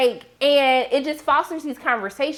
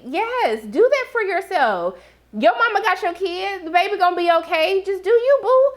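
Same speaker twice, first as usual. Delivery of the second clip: rising higher and brighter to a squealed "boo"; hyped-up encouragement; 5 semitones higher than usual. Retold or imitated. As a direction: cheer her on like a hype friend. Cheering friend on, retold.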